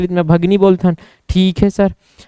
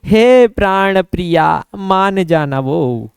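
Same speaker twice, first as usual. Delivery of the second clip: loving plea; 3 semitones lower, slower than usual. Acted. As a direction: stretch each word like a doting husband. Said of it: "इतना प्यार बरसिस ना, तहन कथे".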